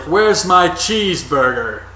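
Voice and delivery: slow, mock British accent for a wrestler's line; hammy fake British accent; bad British accent. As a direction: drop into a clumsy British accent. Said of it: "I do a terrible British accent".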